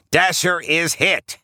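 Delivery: high-pitched, drawn-out character cry; Rudolph yelling. A narrator's reading. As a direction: stretch the alarm out slowly in a high put-on voice. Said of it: "yells Rudolph".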